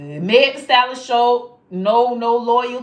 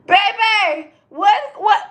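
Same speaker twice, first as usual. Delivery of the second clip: higher voice, words breaking into laughter; laughing; 9 semitones higher than usual. Real, not acted. Asking viewers what Meg did, laughing high. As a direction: giggle through the question.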